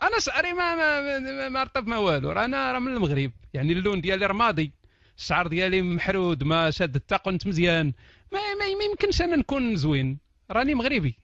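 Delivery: hammed-up stutter, then whining about his looks; mock self-pitying Moroccan. Mocking a Moroccan self-describing. (تقليد ساخر لمغربي يتشكى بصوت عالي ومتلعثم)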